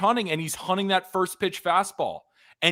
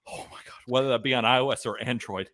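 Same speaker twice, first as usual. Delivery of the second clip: breathless, rushed ad read; out of breath; 5 semitones lower, faster than usual. Real, not acted. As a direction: gasp through the words breathlessly. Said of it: "I'm out of breath".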